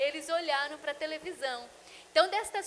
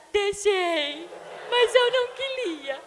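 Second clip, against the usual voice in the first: put-on high, slow, teary child whine; mother imitating her son, teary and high; whining little boy; 6 semitones higher, 8 dB louder, slower than usual. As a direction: drag the words out like a sulking child. Mother voicing her crying son.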